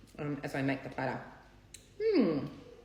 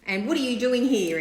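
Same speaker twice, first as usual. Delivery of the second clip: a touch of jealous anger, slowed; wife confronting the cleaner, mildly mock angry; mock accusing wife; 5 semitones higher, 6 dB louder than usual. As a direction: mimic the wife bursting in, accusing. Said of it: "she's like".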